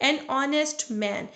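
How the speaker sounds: "an honest man" read very slowly, honest said as onest with a silent h; slow dictation pace, the h in honest dropped; slow silent-h demo. Shown as a demonstration. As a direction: spell it out slowly, each word apart, no h in honest. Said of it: "एच यहाँ पे silent है".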